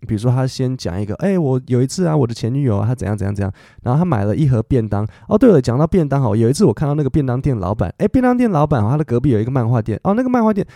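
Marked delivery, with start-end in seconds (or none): 1.2-10.6 standup comedian demo. Shown as a demonstration. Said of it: "他们的笑话模式是怎么样子呢".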